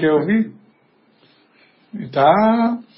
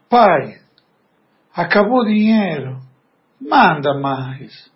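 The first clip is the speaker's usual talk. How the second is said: gentle plea; 2 semitones lower, slower than usual. Retold or imitated. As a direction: ask humbly, lingering on manda mais. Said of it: "mas a entonação".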